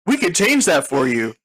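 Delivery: lightly hammed-up hotline ad read; ad announcer. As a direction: pitch it like a cheesy commercial. Mock credit hotline ad.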